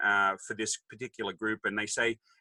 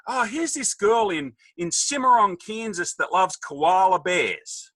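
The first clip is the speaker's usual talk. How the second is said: God voice; 7 semitones higher, slower than usual. Retold or imitated. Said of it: "And then he goes".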